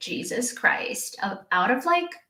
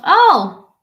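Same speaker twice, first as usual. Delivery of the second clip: surprised gasp; 6 semitones higher, 14 dB louder than usual. Real, not acted. Shocked at a big donation.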